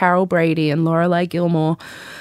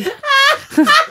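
shrieking burst of laughter; high squealing laugh; 4 dB louder than usual. Real, not acted. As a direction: crack up helplessly.

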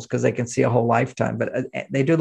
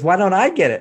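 mock whiny daughter; 5 semitones higher, 4 dB louder than usual. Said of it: "She goes".

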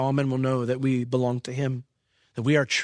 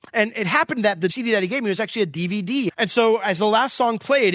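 higher, animated retelling; excited storytelling; 5 semitones higher than usual. Real, not acted. Pastor telling the church about the worship video, lively. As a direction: build the surprise as the video starts.

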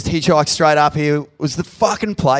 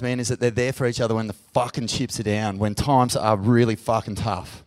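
choked up; 4 semitones lower, 4 dB quieter than usual. Real, not acted. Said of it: "I get emotional thinking about it".

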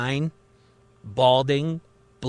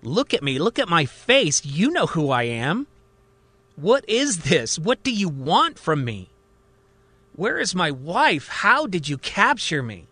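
agitated outburst; 3 semitones higher than usual. Acted. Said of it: "starts to pound on the table".

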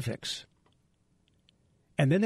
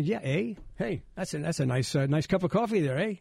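put-on Canadian accent; 3 semitones higher than usual. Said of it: "And then say then".

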